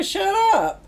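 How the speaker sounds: high-pitched, incredulous exclamation; reliving a stunned reaction; retold disbelief. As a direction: blurt it in mock shock. Retelling her shocked disbelief.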